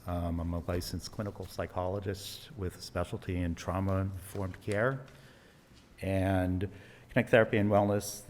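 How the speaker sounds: muffled behind a face mask; talking with a mask on; through a face mask. Real, not acted. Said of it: "Can you hear me with the mask?".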